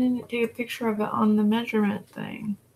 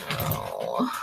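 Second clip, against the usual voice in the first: yawning; 6 dB quieter than usual. Real, not acted. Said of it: "Sorry for the yawning".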